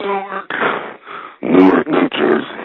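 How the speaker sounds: put-on high, slow, wheezy dying announcer voice, drawn out. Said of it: "he sounds like he's about to fucking die".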